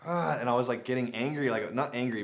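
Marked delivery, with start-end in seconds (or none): 0.0-0.4 single higher-pitched mock bark; imitated dog bark. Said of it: "uncontrollably barking".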